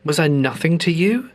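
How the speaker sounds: retold grief. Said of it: "I was crying and sobbing and angry and upset".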